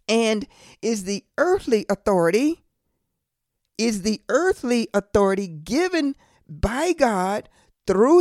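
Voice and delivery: deliberate, phrase by phrase, long pauses; really slow. Real, not acted. Preacher defining government for the congregation, slow and deliberate. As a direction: lay out each phrase slowly and firmly. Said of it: "I'm gonna say this really slow".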